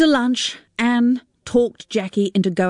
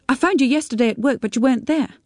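lightly voiced younger daughter, a little higher; an anxious daughter calling, slightly raised pitch; Sarita on the phone; 6 semitones higher, faster than usual.

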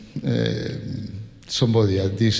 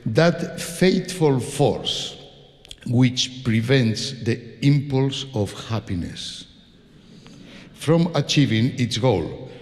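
slow, measured reading with long pauses; solemn quotation; slower than usual. Acted. Conductor reads Tchaikovsky's words on fate to audience, solemn recitation. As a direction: read it out gravely, phrase by phrase.

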